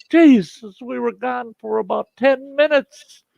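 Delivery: high-pitched exasperated outburst; retold outraged self-defence; indignant protest. Protests accusation in retold quarrel.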